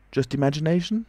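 "Just imagination" high, climbing at the end; incredulous repetition. A narrator's reading. Unseen voice challenges the doubting tramp, high and incredulous. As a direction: echo it as an affronted question.

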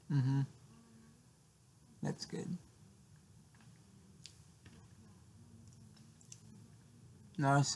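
muffled mm-hmm through closed lips; chewing while talking. Real, not acted. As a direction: mouth partly full of food. Seen 0: Bites bar at -5, lips closed chewing, bar in hand throughout.

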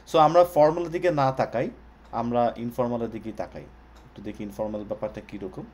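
slightly blocked nose from a cold; stuffy nose. Real, not acted. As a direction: speak through a head cold. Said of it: "sorry, আমার একটু ঠান্ডা লেগে গেছে।".

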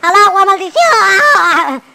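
long, high, loud cry; drawn-out hammy scream; falling yell. Pretend. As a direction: shout it as you plunge, stretching the end. Falls into the water.

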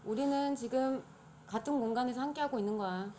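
ordinary talk

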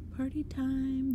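loud, slow, high taunting shout; gruff shout. A narrator's reading. Masked intruder shouting at frightened kids, gruff. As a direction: bellow it out like a thug crashing a party. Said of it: "the gorilla shouted in a gruff voice".

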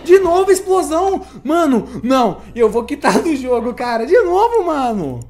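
high loud frustrated yelling; raging gamer. Real, not acted. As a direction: scream at the game again. Dies again, screams.

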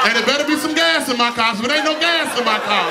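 a hint of an angry mother counting down; mama's gangster countdown. Mother counting down at kids to bed, mock angry. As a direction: bark the numbers like a mama losing patience. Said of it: "your mama do the gangster countdown".

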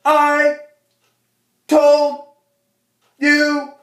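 high, loud, drawn-out mom yell; hammed-up screeching mother. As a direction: shout each word apart as you whip. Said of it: "she's going".

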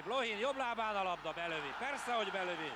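rising excited call; excited commentary. Real, not acted. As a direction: build up to the shot. Goal chance commentary.

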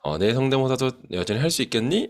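a hint of a playful animal asking; lightly voiced cartoon animal. Teacher retelling the animal's question, mild cartoon voice. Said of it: "이런 식으로 이야기를 하고 있는 것이죠".

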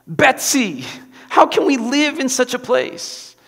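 mild wail, pitch climbing high; a touch of despair, voice rising. A narrator's reading. Corrie crying to her sister Betsy, mild wail. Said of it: "Corrie wailed".

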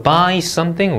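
'by something' lifting at the end; rising intonation. Shown as a demonstration. Teacher modelling a preposition phrase, rising tune. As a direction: leave 'something' up, unfinished. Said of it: "올려 읽고요".

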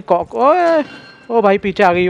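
high, sudden frightened shriek; startled shriek. Real, not acted. Gamer shrieks when the granny ghost appears behind.

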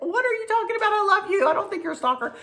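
high, lightly played warm protest; a hint of laughing reassurance to a friend; amused disbelief. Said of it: "I'm like".

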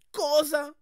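high, loud disbelief; loud stunned cry; shocked shout. Acted. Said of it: "gridò".

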